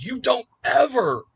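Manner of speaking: put-on high, loud stern command stopping a child; sharp warning. Stepdad stopping the boy from hitting mom, stern loud warning. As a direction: snap it out to stop the boy cold.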